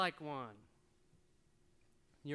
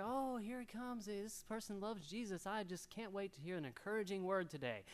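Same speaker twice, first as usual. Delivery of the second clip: hopeful listener; 4 dB quieter than usual. Retold or imitated. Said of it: "You're expecting to".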